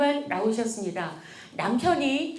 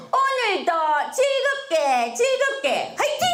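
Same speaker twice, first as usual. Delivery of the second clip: high, bright, rising to a cheer, slow start; rally the kids for the day; cheerful mom pep talk; 6 semitones higher than usual. Retold or imitated. Mother cheering kids each morning. (엄마가 아이들에게 신나게 외치는 응원)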